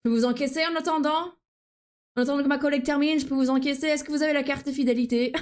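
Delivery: quick, sing-song cashier script; voix de caissière; customer service voice. Retold or imitated. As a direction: ring up the customer politely. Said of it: "I would be ringing people up and be like".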